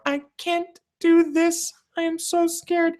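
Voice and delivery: very high, slow, whimpering mock voice of a frightened girl; hammed-up high scared whine; scared girl imitation. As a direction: squeak it out like a terrified little runner. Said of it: "was just her going".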